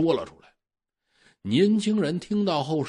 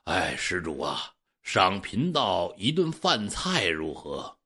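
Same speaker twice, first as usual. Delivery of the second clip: put-on old Taoist priest; 6 semitones lower, slower than usual. Taoist asks for a meal.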